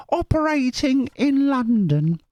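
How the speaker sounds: high, slow squeaky mock of the viewer; squeaky commenter voice. Vlogger reading a viewer's comment aloud, squeaky and high. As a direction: read her request in a put-on squeak. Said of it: "impression of my voice".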